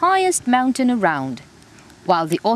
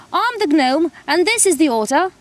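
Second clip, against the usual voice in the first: shivering; 9 semitones higher, 4 dB louder than usual. Acted. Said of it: "shivered the gnome".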